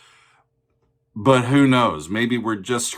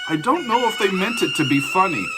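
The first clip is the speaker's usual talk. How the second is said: high, fast, laughing through the words; can barely get it out for giggling; 12 semitones higher, 3 dB louder, faster than usual. Real, not acted. Reactor cracking up at the absurd track, laughing through it.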